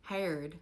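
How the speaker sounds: "Harold" in Appalachian dialect; Appalachian pronunciation. Shown as a demonstration. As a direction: say "Harold" the old Appalachian way, for Howard. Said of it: "Here are a few that I remember my grandparents saying".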